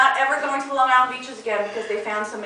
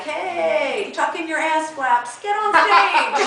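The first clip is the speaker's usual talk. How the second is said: mock a rapper; 4 semitones higher, much slower than usual. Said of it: "the rapper isn't calling, like".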